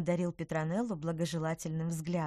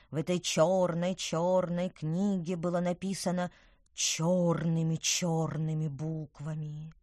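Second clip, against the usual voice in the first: spooky storytelling voice; slower than usual. Acted. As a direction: draw it out like a ghost story. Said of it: "понизила голос".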